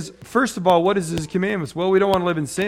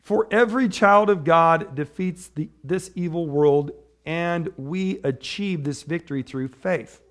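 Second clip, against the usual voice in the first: slow, raised reading voice; scripture reading; slower than usual. Acted. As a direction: read the verse out with weight.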